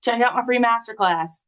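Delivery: lightly voiced salesy pitch; pushy telemarketer. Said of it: "bad telemarketer".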